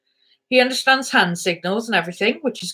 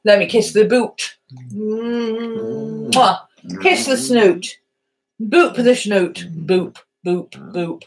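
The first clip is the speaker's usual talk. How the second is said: playful dog talk; slower than usual. Real, not acted. Kissing the dog's nose.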